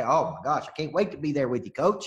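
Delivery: imitating an attendee gushing to the coach; gushing excitement. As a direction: ham up the eager attendee's promise. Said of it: "here's what they'd say".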